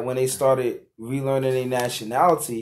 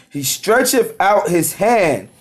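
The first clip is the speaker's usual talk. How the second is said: slow, measured reading of holy text; scripture reading; much slower than usual. Acted. Reading the verse to the study group, slow scripture reading. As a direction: read it out slowly, phrase by phrase.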